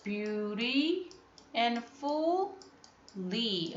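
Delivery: beauty, then a slow drawn-out and fully; split into parts. Shown as a demonstration. Teacher showing pupils the syllables, slowly. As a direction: break beautifully apart slowly. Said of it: "You can say".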